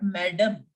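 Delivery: madam as MAD-um; English madam with a short, weak ending; English pronunciation. Shown as a demonstration. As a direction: say madam the English way, first syllable stressed. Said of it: "In French, the alphabets are similar to English, but the pronunciation is not".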